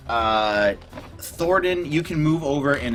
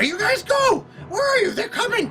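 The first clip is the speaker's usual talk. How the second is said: very high, frantic squeaky goblin. Acted. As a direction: panic in a tiny shrill goblin voice. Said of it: "He's like".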